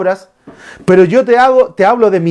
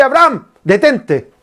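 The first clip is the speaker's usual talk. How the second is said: raised, calling out to stop him; urgent divine command; 5 semitones higher than usual. Retold or imitated. God calls to Abraham to stop, urgent. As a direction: call out to halt the sacrifice. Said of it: "Dios le dice".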